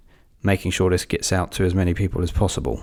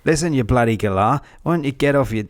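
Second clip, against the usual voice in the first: mock Australian rant; 2 semitones higher than usual. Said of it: "Come on, do an accent".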